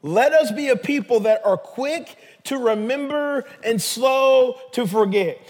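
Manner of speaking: deliberate, drawn-out preacher's delivery; slowly repeated. Real, not acted. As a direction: spell it out slowly for the congregation. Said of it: "Let me say that again slowly".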